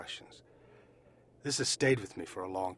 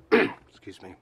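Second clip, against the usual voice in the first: polite call; 13 dB louder, slower than usual. Retold or imitated. Approaching stranger to ask phone.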